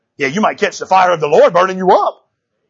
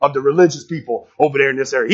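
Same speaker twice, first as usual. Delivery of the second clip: a touch of a sulky whine; whining; 3 semitones lower than usual. Acted. Naaman whining to his men about the river, sulky mutter. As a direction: grumble low and sulky like a spoiled man. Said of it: "he's whining to his men".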